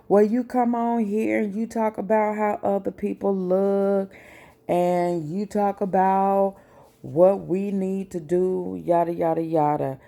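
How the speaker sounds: mocking critics. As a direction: parrot the judgers with a scornful lilt. Mimicking critics who judge her looks.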